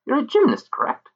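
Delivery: high, calling fairy voice; shrill pixie calling out. Acted. Pixie questioning gymnast.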